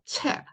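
"채" modelled as a single joined sound; pronunciation demo. Shown as a demonstration. Teacher joins 치읓 and A for learners, demonstrating "채". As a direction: say "채" as one joined syllable. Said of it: "연결해서 채 하고 읽어주시면 되고요".

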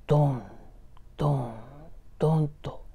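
low, evenly spaced booms; imitated thuds. Storyteller imitating a strange sound outside the room, low thuds. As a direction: voice distant thuds with long gaps. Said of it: "なんか変な音が".

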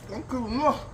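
talking through a mouthful; words round a cold bite; mouth full. Real, not acted. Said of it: "You got a mouthful of ice cream".

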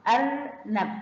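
أرنب with the ر clearly sounded; demonstrating the R. Shown as a demonstration. Teacher shows pupils the ر in أرنب, demonstrating. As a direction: let the ر in أرنب be heard. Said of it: "سامعين صوت الراء".

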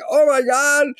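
high, loud cry of alarm; retold shock. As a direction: exclaim in hammed-up horror. Retelling shock as audience yells.

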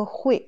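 "hui" in Mandarin fourth tone, falling. Shown as a demonstration. Teacher naming the verb reading for learners, fourth tone. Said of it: "quatrième ton".

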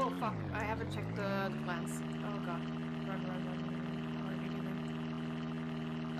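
panicking gamer. Real, not acted. Forgot the plants, rushing.

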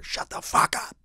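rough yell from across the way; scary guy's yell. Retold or imitated. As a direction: imitate a scary neighbor yelling. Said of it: "like a, a scary guy's voice".

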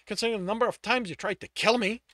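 loud, high, exasperated yelling; shouting incredulously at the brother who hunted him; furious outburst. Acted. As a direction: blast him with disbelief and rage. Tristan yells at his brother.

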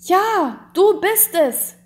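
high, loud cry of recognition; overwhelmed cry. A narrator's reading. Count waking from horror to his living wife, loud overwhelmed cry. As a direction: burst out as the truth hits. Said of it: "rief er".

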